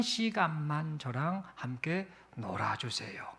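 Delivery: slow, unvoiced pleading whisper; child's slow begging whisper; whispered plea. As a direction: whisper the wish almost too shyly to ask. Child's tender plea to father.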